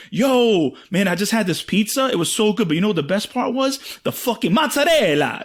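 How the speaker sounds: gush, ending on over-Italian mozzarella; imitating the show-off. Comic mimics friend raving about pizza, mock enthusiasm. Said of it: "You're gonna be like".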